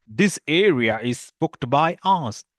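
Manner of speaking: slow, loud and bossy, like addressing a crowd; loud vendor claim. Acted. Vendor lady claiming her spot, slow loud bossy call. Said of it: "In the same tone".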